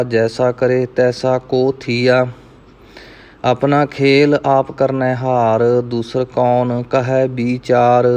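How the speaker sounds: measured Gurbani recitation, evenly pitched; scripture recitation. Acted. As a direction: recite verse by verse, drawing out line endings. Recites scripture between explanations. (ਸਹਿਜ ਨਾਲ ਗੁਰਬਾਣੀ ਪਾਠ)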